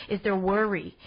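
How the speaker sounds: "worry" slipping into a New York accent; a slight New York twang on "worry"; accidental New York accent. Real, not acted. Podcaster catches herself saying "worry" in a New York accent. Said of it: "Did I just sound like I had a New York accent?".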